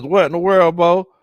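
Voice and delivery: loud, excited read of a chat comment; hyped chat read. Retold or imitated. Streamer reading a fan comment, loud and excited. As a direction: shout the viewer's message to the stream.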